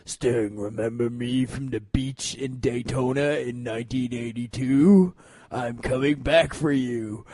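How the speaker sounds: low, slow, menacing distorted voice; low and quiet, like a mystery caller on TV. Retold or imitated. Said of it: "their voice would be distorted".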